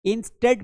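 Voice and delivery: "instead" as in-STED; short e in "instead"; correct pronunciation demo. Shown as a demonstration. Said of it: "instead पढ़ना है". ("instead" में "ए" की आवाज़)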